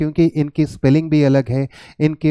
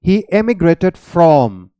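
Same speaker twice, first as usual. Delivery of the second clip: very slow, word by word, he stretched out; slow example reading; 4 dB louder, much slower than usual. Shown as a demonstration. Teacher reading an example sentence to students, very slow. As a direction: spell out the example slowly for learners. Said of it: "जैसे".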